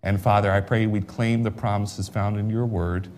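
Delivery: hushed pulpit prayer. Acted. Leads a prayer.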